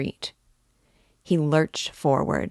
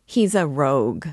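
shouted accusation; 4 dB louder than usual. Acted. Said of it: "shouted the peasant woman".

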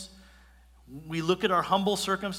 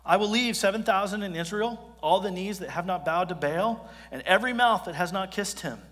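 God reassuring Elijah; 3 semitones higher than usual. Acted. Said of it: "He's like".

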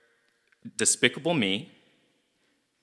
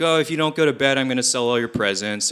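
a louder mock threat, teasing; pretend-scold the kid at bedtime; father jokingly threatening his daughter; playful dad threat; 2 semitones higher, 4 dB louder, faster than usual. Iron Man teasing daughter.

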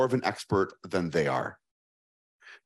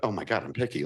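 dawning realization; faster than usual. Retold or imitated. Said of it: "I'm like".

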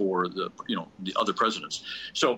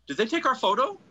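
high, anxious wife voice asking fast; retelling his wife, pitched up and fretful; worried wife; 13 semitones higher than usual. Retold or imitated. Anxious wife asking her husband about the photo, voiced high.

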